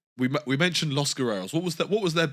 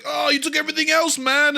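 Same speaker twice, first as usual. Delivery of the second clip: mock Latino accent; 12 semitones higher, 5 dB louder than usual. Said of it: "He's like".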